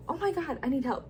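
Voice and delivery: high-pitched retold plea for help; mock alarm. Heroine begging for help after a kidnapping, mock alarm.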